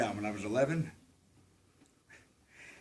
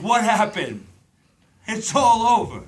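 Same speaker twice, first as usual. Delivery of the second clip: higher and louder, a sudden cry of loss; despairing cry; 7 semitones higher, 8 dB louder than usual. Acted. Voicing the girl's future despair as a loud cry. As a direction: let the realization burst out.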